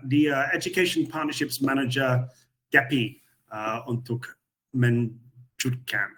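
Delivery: Indonesian with an Australian accent; halting non-native Indonesian; foreigner indonesian. Real, not acted. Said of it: "bahasa Indonesia saya belum lancar".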